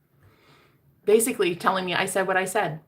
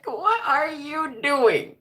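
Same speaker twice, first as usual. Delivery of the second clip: slow, higher, through laughter; laughing disbelief; 9 semitones higher, 5 dB louder, slower than usual. Real, not acted. Laughing at her own blunder.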